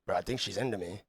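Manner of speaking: low, quiet nudge to a buddy; confidential aside. Acted. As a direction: confide it under your breath to a friend. Guy nudging friend about bartender.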